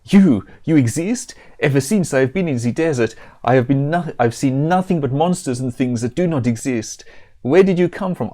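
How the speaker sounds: badly faked Italian, straying vaguely Mexican; Italian accent. Pizza elemental astonished to meet someone in the desert, mock Italian accent. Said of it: "I think I'm straying vaguely Mexican".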